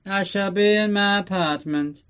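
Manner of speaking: hint of a grand supervillain announcing his exit; Bond villain voice. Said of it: "Blofeld's meeting with everybody".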